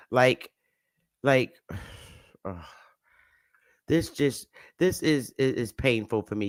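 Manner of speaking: words catching in the throat; real emotion pulling the voice down; emotional. Real, not acted. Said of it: "I just get very emotional".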